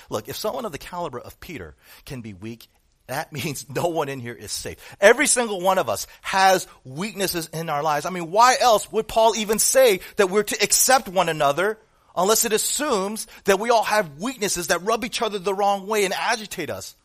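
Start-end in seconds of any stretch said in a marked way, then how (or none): 5.0-16.9 loud, high preaching build; fervent sermon climax; full-force preaching. Acted. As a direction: drive it home from the pulpit.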